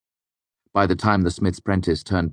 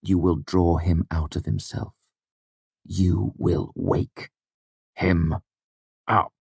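fierce; slower than usual. A narrator's reading. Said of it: "He said the last words fiercely".

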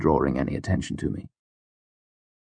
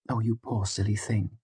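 soft, higher and tender; 5 semitones higher, 7 dB quieter than usual. A narrator's reading. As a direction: hush it, pitying and kind. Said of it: "Denner said softly".

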